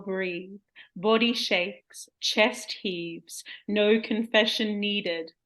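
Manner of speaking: slow sultry poem reading; poem recital. Acted. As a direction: recite it slowly and seductively. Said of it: "hope you enjoy my growth".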